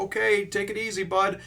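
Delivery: high, put-on pally voice; chummy farewell. Hachi saying bye to his pal, hammed-up chummy voice. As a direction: overdo the friendly send-off. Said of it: "they're like buddies".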